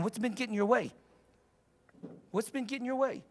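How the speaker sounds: gentle, caring coach's question; soft, loving inquiry; compassionate. Shown as a demonstration. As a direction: ask it tenderly, leaving room to answer. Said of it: "be compassionate, loving".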